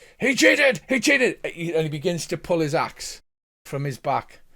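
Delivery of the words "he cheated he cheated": shrill, loud shout pitched way up. Voicing an angry rider whose bison was knocked out: shouting. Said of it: "and shouts".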